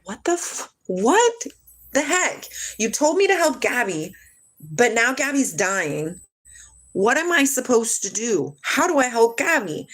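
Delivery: high-pitched, exasperated mock yell; retold yelling at God. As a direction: plead upward in protest, without real volume. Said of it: "and I yell at God".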